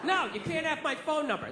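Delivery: hammed-up indignant refusal, half laughing; mock retort. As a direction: push back at the clerk with a laugh. Comic's retort to cashier.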